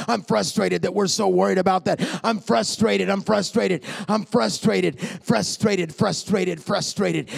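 emphatic, hammered repetition; frustrated. Real, not acted. Preacher venting to the congregation, insistently frustrated. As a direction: hammer out each frustrated with equal weight.

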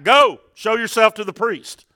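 retold shout, short of full force; imitated commanding call; shouting back. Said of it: "Jesus didn't shout back".

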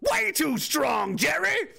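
high, slow shouted hype call. Acted. Hyping guest Jerry, high slow shout. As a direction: belt it like a ring announcer.

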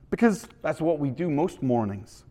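dad explaining in a put-on Canadian accent. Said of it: "my best Canadian accent".

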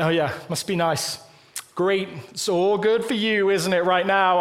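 a touch of dry mock congratulation; mildly sarcastic. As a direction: say it with a faint eye-roll. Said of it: "slightly sarcastic element".

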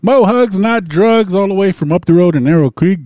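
loud, high-pitched ring announcer call; hype show announcer. Acted. Host introducing the night's special guest co-host, hype announcer. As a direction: belt out the guest introductions, stretching names.

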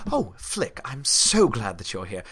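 lightly put-on English accent. Hawks greets Flick on walking in, English accent. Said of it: "Wait, she's English, right?".

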